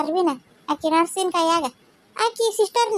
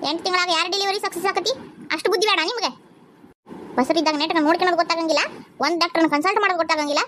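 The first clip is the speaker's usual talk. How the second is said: fast, irritated lecturing; scolding; faster than usual. Acted. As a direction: brush them off impatiently. Nurse scolding the family. (ಸಿಡುಕುತ್ತ ವೇಗವಾಗಿ ಬೈಯುವ nurse)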